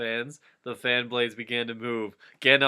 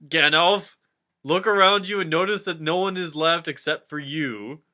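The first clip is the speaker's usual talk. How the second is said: raised pitch and louder, hammed-up; high loud character voice; 5 semitones higher, 7 dB louder than usual. Gandalf cheerfully agrees to Frodo's help, high and loud. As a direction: ham it up like a cartoon. Characters' lines read loudly.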